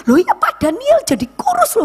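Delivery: high-pitched amazed remark; mock-amazed, high voice; surprised acquaintance. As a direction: imitate someone struck by a change.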